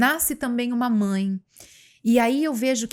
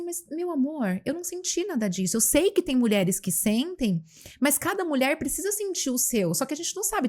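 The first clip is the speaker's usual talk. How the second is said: higher and softer, tender reassurance; gentle reply; 4 semitones higher, 3 dB quieter than usual. Retold or imitated. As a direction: soothe a friend kindly. Replying gently to annoyed friend. (resposta carinhosa, aguda e suave)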